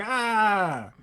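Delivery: imitated yell. Player asking if friends are fighting, mock yell. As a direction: imitate distant yelling with a high "ah". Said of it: "like, yelling".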